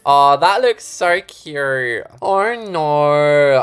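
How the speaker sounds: loud, slow gushing delight. Real, not acted. Builder admiring the little shelf, gushing. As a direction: gush over the cute shelf.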